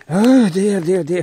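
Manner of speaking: high, loud cry of alarm; frightened cry. Real, not acted. Frightened again.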